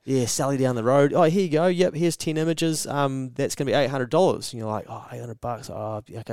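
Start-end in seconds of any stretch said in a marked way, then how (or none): 1.1-4.5 breezy designer. Retold or imitated. Sally the designer voiced. 4.9-6.3 deflated. Retold or imitated. Maker deflated by the price.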